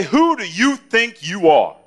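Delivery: stern father imitation. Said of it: "He would say".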